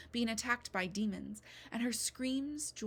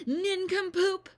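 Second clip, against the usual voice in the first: much higher, very loud, slow bellow; 10 semitones higher, 10 dB louder, slower than usual. Acted. Midwife bellows at Beetle before dragging her out, slow roar. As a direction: drag out the insult in a roar. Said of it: "she bellowed".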